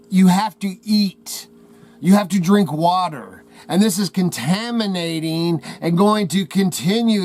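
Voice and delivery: a forceful heartfelt warning. Real, not acted. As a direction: press each word hard at viewers. Urgent warning to viewers.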